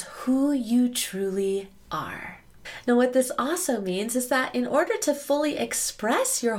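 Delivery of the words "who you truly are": slow intimate whisper. Acted. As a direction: whisper it like a secret. Key line of definition.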